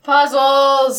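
bursting with delight; thrilled. Real, not acted. Excited at puzzle item.

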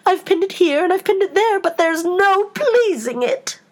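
high-pitched, rising lament; exasperated, woeful storybook queen; melancholy Queen. A narrator's reading. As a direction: wail the complaint, slowing at the end. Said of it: "in a melancholy voice".

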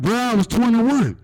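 high, slow, incredulous whine; indignant high protest. Retold or imitated. Comedian protesting to the bill collector, high and slow. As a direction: stretch it out in disbelief. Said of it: "I was like".

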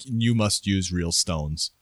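put-on slow, heavy Russian accent as a method actor; mock Russian accent demanding real stones. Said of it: "I don't even know what accent that is I'm doing".

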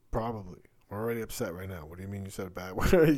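a retold parent getting worked up; mock upset dad. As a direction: play the exasperated dad, voice rising. Dad reacting to bad word.

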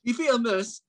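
put-on British, drawn out; fake British accent. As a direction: savour the word in mock British. Playing British for the contest.

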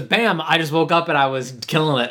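punchy, showy "bam"; hip hop kid voice. Retold or imitated. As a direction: bark out "bam" like a wannabe rapper. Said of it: "That's how he talks".

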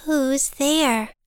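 a hint of a small, wondering bird; puzzled little bird. Little Bird calls out to an unseen visitor, puzzled.

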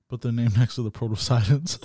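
amused, breaking into laughter; laughing. Real, not acted. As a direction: laugh through the words. Joking aside with laughter.

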